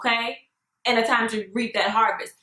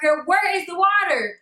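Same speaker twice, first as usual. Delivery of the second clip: incredulous shout; 6 semitones higher than usual. Real, not acted. Mocking cult baptisms at Walmart.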